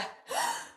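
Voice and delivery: high audible gasp; big demonstrative inhale. Shown as a demonstration. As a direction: draw in a calming breath. Recovering after acted tantrum.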